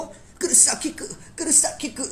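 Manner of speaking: very high, slow squeaky wail with a laugh; mocking anime girl. Vlogger acting the girl as the hero gets punched, high wail. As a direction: drag the name out like a fretting heroine. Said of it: "एक मुक्का मारा hero को".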